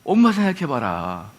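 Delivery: lightly acted tear-jerking appeal, pitched low; emotional retreat preacher. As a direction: mildly imitate a preacher working children's emotions. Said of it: "그 감성을 자극하잖아요". (살짝 낮춰 감성을 자극하는 전도사 흉내)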